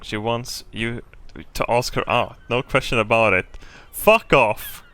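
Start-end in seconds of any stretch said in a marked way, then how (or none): 3.9-4.8 loud mock outburst at the game; a playful yelled "Fuck off!". Real, not acted. The player yells back at the game's suggestion.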